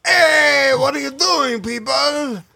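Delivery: mock whiny shout. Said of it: "start talking like that".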